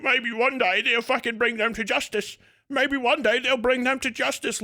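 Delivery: lightly put-on whiny voice; mock whining. Ranter imitating chat members hoping for justice, mildly whining. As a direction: imitate a helpless online whiner. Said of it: "whining about America".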